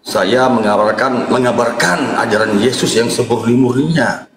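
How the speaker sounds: solemn low pastor preaching; preacher voice. Acted. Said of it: "saya Pendeta John Timothy".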